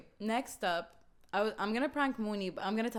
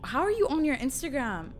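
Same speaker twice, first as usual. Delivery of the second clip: higher, louder pretend alarm; fake alarm; 4 semitones higher, 6 dB louder than usual. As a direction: act shocked and confused. Faking alarm in prank.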